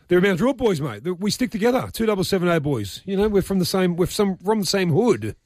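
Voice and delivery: high, swaggering street talk; gangster voice. Pretend. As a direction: lay on the hood swagger. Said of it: "Was that, was that your gangster voice?".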